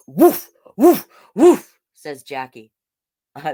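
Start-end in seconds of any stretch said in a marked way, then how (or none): 0.1-1.8 high, louder puppy woof; baby dog barks. Acted. Baby Jackie pretending to be a dog, playful woofs. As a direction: bark like a tiny excited puppy.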